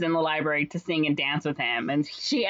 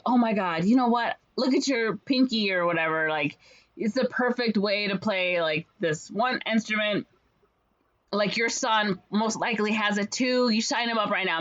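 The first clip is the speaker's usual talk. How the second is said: mock excited pitchman; 4 semitones higher than usual. Salesman flatters mayor's wife.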